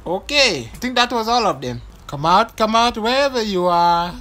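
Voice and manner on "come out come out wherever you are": teasing hide-and-seek lilt; sing-song taunting. Pretend. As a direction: coax them out like a game. Taunting hidden enemy.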